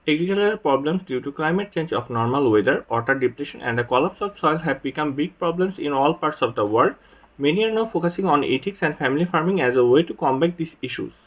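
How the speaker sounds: slow, careful reading of a test passage; exam read-aloud demo. Shown as a demonstration. Tutor showing students the read-aloud task, reading slowly and carefully. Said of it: "আমার এগারো সেকেন্ডে আমার শেষ হয়ে গিয়েছে".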